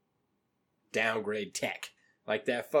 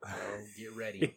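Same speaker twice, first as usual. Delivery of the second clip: whispering; 4 semitones lower, 12 dB quieter than usual. Real, not acted. Teasing before showing old photo.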